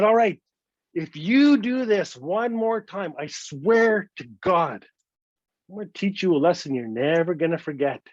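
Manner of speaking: mild acted anger, heavily emphasised; stern warning. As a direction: lay down an ultimatum, stretching each phrase. Partner's final warning, acted.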